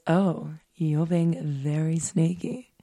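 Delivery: lightly put-on smooth jazz croon. Podcast host reads a date's flirty messages, hint of smooth jazz voice. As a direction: read it like a mild smooth-jazz creep. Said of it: "back to smooth jazz territory".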